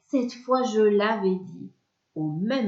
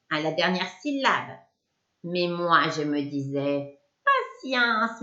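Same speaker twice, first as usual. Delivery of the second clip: sneering witch. Acted. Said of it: "Elle ricane doucement".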